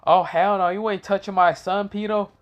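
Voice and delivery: high-pitched indignant dad, hammed up; protective outrage. Slick defends his son from Kakashi, mock furious.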